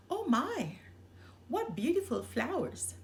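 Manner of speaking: a girl spotting flowers, hushed then lightly voiced; delighted little girl. A narrator's reading. Little girl sees wildflowers, breathy delighted gasp. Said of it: "Little Red said".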